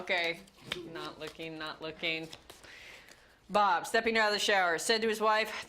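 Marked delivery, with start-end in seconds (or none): 0.9-2.3 whispered aside; a real hushed whisper. Real, not acted. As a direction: whisper it to yourself. Averting eyes during reading.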